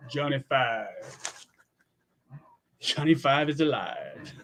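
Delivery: lightly voiced movie robot, drawn out; Johnny Five. Streamer quoting a favorite movie to chat, light robot voice. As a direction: quote the robot's catchphrase slowly.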